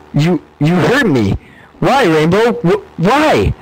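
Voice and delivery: a choked, slow, breaking voice, half crying; sobbing child. A narrator's reading. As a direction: plead through tears, barely holding on. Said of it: "Another fit of sobs was coming on".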